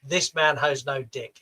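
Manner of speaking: put-on half-hearted Boston accent; weak attempt at a Boston accent. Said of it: "generic Boston accent, which I can't do".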